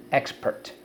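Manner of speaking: Expert whispered. Shown as a demonstration. Teacher whispers the word for students to echo. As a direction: breathe Expert without voice. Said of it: "So let's go".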